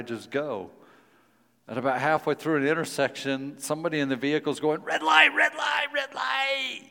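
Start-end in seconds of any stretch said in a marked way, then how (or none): 4.8-6.8 loud, high repeated warning yell. Retold or imitated. Passenger yelling at the driver to stop. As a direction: shout it like a panicked passenger.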